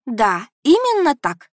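короткий резкий ответ, с вызовом; отрезать сухо и резко. A narrator's reading. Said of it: "резче, чем хотелось бы". (резче, чем хотелось бы)

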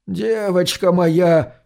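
put-on slow, high old grandmother mutter; lightly voiced old granny, drawn out. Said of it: "бормочет бабушка".

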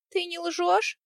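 put-on high, wary boy's question; a little prince checking she's honest; lightly serious child voice; frowning child. A narrator's reading. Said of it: "нахмурился маленький принц".

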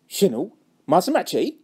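openly sceptical check; doubting question. Acted. Friend doubting the trader heard nothing, sceptical. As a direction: question it as if you don't believe it. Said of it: "كان شاك بصحة كلامي".

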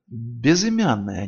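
hesitant, slow; awkward. Acted. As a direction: start uncertainly, drawn out. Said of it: "неловко начал Фэс".

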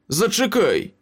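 high-pitched desperate call; crying out. A narrator's reading. Beaten Ace begs Meryl to hold off, crying out. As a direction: cry out to stop the next blow. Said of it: "крикнув він".

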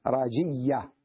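راجية with the two ya sounds merged into one held "yy"; merged double ya. Shown as a demonstration. Teacher showing students how idgham merges the letters, doubled ya in راجية. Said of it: "ندغم ياء ساكنة بياء متحركة".

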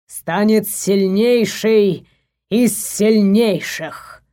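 slow, weighty royal proclamation; solemn king voice. Acted. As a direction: draw out the last words grandly. King announces the duel.

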